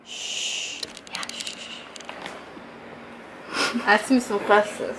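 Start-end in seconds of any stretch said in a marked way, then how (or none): 0.1-1.8 soft unvoiced shush. Real, not acted. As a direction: hush them quietly. Shushing friend to keep quiet.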